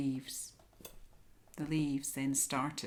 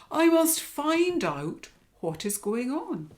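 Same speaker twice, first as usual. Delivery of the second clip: lion voice; 9 semitones higher, 7 dB louder than usual. Acted. Lion speaks.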